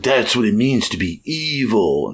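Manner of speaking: slow, drawn-out hint of a villain; lightly hammed-up evil monologue line; mock villain. Podcaster quoting the psychopath's monologue, mock villain.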